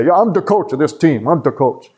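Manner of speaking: tough Chicago coach voice; growing assertive in a Chicago accent; imitated Chicago football coach laying down who's boss; Mike Ditka. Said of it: "And he would say that".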